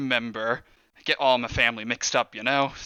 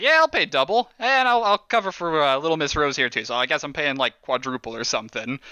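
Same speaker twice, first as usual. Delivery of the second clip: boastful boss. Acted. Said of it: "He's like".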